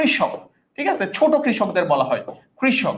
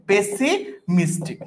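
slow, drawn out; 3 semitones lower, much slower than usual. Shown as a demonstration. Teacher showing students the spelling, very slowly. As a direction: stretch পেসিমিস্টিক out slowly, syllable by syllable. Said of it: "P দিয়ে double S হবে".

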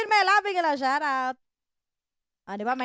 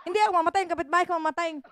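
retold protest; 4 semitones higher, faster than usual. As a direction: insist to the neighbor, half laughing. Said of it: "sabi ko". (pasigaw na paliwanag sa kapitbahay)

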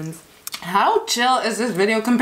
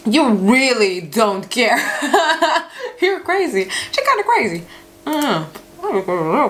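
talking while chewing salad; muffled chewing speech; mouth full chewing. Real, not acted. Seen 5: fork to mouth at +0.1, visibly chewing until about 1.5s.

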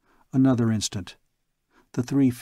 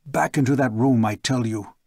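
rasping. Acted. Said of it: "He rasped".

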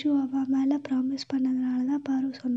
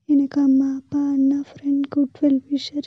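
louder, each name pushed out with feeling; loud emotional listing; 7 dB louder than usual. Acted. Sister loudly tells Aishu her brother is everything to her. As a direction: list them loud, as if everything depends on it.

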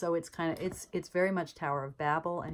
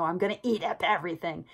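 mock monster voice, louder and fast; hungry hell mouth; 6 dB louder, faster than usual. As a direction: voice the greedy devouring mouth. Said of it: "It's like this".

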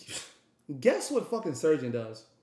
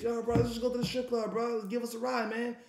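pleading; 6 semitones higher, faster than usual. Retold or imitated. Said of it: "That's what he say".

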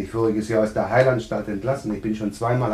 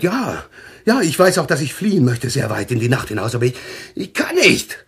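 anguished fear; 3 semitones higher than usual. Acted. Patient confesses dread of midnight.

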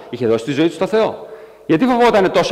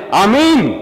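1 crowd shout; 5 semitones higher, 4 dB louder than usual. Acted. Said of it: "χιλιάδες άνθρωποι φωνάζανε".

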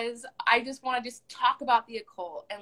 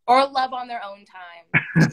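repeated louder and slower for someone who missed it; clearer repeat; 9 dB louder, slower than usual. Real, not acted.

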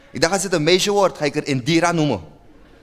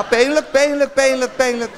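wincing sympathy; 8 semitones higher than usual. Acted. Wincing at tear.

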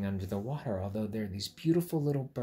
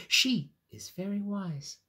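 starfish voice; 9 semitones higher, 4 dB louder than usual. Acted. Starfish character voice.

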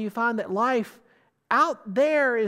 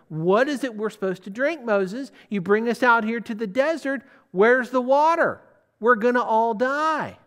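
louder, rising indignant moan; grumbling complaint; 4 dB louder than usual. Retold or imitated. Thirsty Israelites complaining to Moses, building indignant grumble. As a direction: complain bitterly, building to a loud protest. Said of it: "The people are murmuring against Moses".

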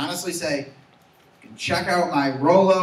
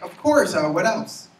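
a chirpy cashier's mock enthusiasm, pitched up; enthusiastic barista; 3 semitones higher, slower than usual. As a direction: imitate an eager barista upselling. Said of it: "She's so enthusiastic".

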